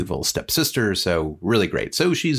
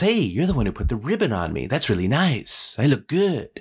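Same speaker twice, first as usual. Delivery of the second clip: lightly voiced vain tree; swooping, pleased-with-itself delivery; 4 semitones higher than usual. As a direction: admire yourself, tickled by the compliment. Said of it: "And then it goes".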